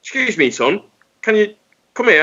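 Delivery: a hint of an old man calling the driver back; imitated old bloke calling. Delivery driver imitating pensioner calling him back, lightly. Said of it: "he shouted me back".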